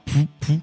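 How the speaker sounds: soft puffed "pou, pou" sound effect; imitated whoosh. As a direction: puff out two soft whooshes. Mime les routes toutes droites. (deux petits « pfou » soufflés pour imiter la route)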